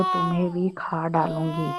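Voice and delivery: repeating the threat through tears; tearful retelling of the ghost's words; a touch of sobbing on the threat; crying. Retold or imitated. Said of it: "मैं ज़ोर से रो के बोली".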